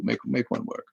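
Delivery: ordinary talk, nothing marked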